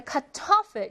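카토플 with 토 stressed; 카토플, accent falling on the second syllable 토. Shown as a demonstration. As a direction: hit the middle syllable 토 in 카토플. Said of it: "이 음절의 강세 있고요".

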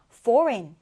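"foreign" with the G left silent. Shown as a demonstration. English teacher showing learners the word, "foreign" with silent G. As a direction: say "foreign" as FOR-in, no G sound. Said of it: "이렇게 발음해 주는데요".

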